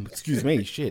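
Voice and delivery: coughing fit mid-sentence; choking and clearing the throat. Real, not acted. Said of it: "I started choking".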